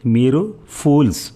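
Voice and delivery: slow angry yell; shouting. A narrator's reading. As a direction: yell it at him. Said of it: "అరిచింది".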